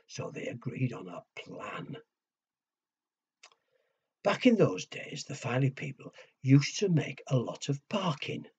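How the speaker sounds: put-on lively storyteller voice for kids; reading to children. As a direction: build suspense like bedtime story.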